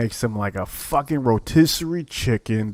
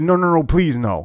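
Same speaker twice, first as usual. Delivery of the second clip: retold pleading; 4 semitones higher, 3 dB louder than usual. Retold loser begs not to lose.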